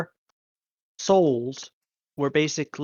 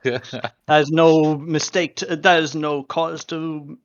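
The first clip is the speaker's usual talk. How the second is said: loud, mock-pompous scolding; mock outrage; 2 semitones higher, 5 dB louder than usual. Game master scolding player for mispronouncing a name, mock outrage. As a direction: build to a louder, hammed-up reprimand.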